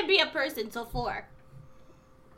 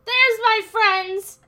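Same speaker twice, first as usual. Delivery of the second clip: put-on slurred drunk; 6 dB louder than usual. Drunk character, slow loud.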